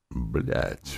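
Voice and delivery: ordinary delivery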